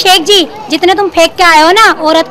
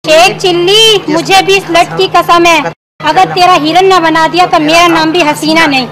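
vowing revenge. Acted. Woman swears by her lock against him, vowing revenge. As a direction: declare your revenge, stretching the name.

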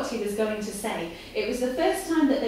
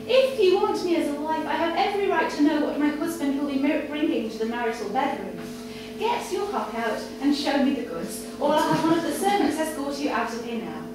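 Victoria's imperious voice; 3 semitones higher than usual. Acted. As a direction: lay down terms, imperious and pushing. Victoria demands he undress.

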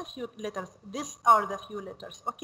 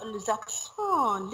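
slow; 2 semitones lower, 4 dB quieter, much slower than usual. Shown as a demonstration. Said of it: "teacher modelling term slowly".

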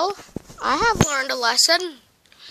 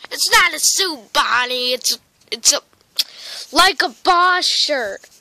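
indignant protest; 7 dB louder than usual. Acted. Puppet protests about the shirt.

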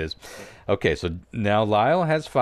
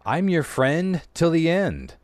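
Chucky doll voice; 9 semitones higher, 4 dB louder than usual. Acted. Quotes Chucky for quiz clue.

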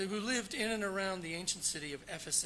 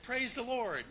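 mock preacher call; 6 semitones higher, 5 dB louder than usual. Preacher commanding his horse.

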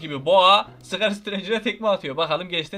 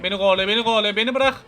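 being chased; 4 dB louder than usual. Real, not acted. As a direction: cry out while fleeing. (kovalanırken panikle bağırma)

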